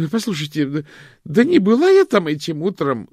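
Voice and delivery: high, loud pleading cry; desperate protest. A narrator's reading. Loretta protests to Hanna, loud and high. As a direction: shout it out, cornered.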